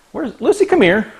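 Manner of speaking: high sing-song call across the room; calling the dog. Real, not acted.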